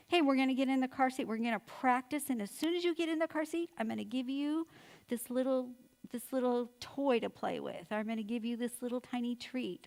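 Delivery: put-on brisk, lilting parent-to-child pitch; upbeat coaxing. Mom promising a treat for getting in the car seat, upbeat coaxing. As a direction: sell the reward to a little kid.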